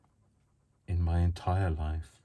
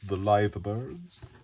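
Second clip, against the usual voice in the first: put-on slow, louder Scouse-accented title; Liverpool accent; 4 semitones higher, 5 dB louder, much slower than usual. Joking to viewers, slow bad Liverpool accent. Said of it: "that's as much as the accent I'm going to murder".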